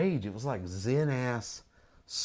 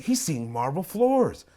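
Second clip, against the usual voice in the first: incredulous mockery; 4 semitones higher, slower than usual. Mocking man's view.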